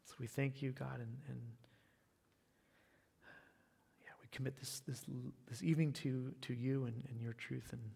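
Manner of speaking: hushed, earnest prayer to God; murmured pastor's benediction prayer; closing prayer. Real, not acted. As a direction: pray it quietly and sincerely, eyes closed. Closing prayer after sermon.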